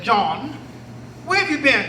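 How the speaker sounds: name called with a rise, then the question; lightly voiced master; the corrected master calling John; master's voice, done right. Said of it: "that's not the way he spoke".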